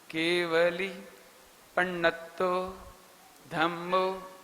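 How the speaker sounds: केवली पण्णत्तो धम्मो spaced out, पण्णत्तो slow with double nn and tt; careful recitation. Shown as a demonstration. Teacher models the correct recitation of केवली पण्णत्तो धम्मो, slow. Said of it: "ऐसे बोलिए उसको आप".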